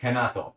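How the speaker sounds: "Renato" said as "Henato"; H pronunciation. Shown as a demonstration. Repeating the viewer's answer about the name, H sound. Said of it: "R sound or an H sound".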